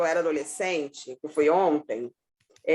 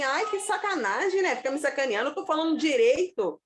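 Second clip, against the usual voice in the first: retold complaint; 6 semitones higher than usual. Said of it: "Aí eu falava assim".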